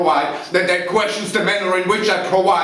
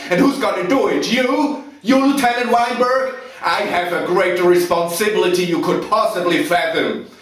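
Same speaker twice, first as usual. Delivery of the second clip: loud, raised-pitch furious outburst; angry tirade; 4 semitones higher, 4 dB louder than usual. Acted. Officer defending himself to Lieutenant Weinberg, loud angry tirade. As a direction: thunder contemptuously, leaning hard on the key words. Officer erupts under questioning, acted monologue.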